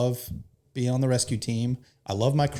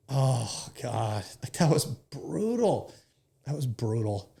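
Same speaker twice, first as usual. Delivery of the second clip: choked up; 4 semitones higher, slower than usual. Real, not acted. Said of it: "I will not be able to say this without crying".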